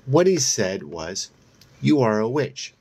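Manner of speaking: honeyed, lightly mocking sweetness; sweet voice. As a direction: coo it like a sugary taunt. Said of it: "I continue in a sweet voice".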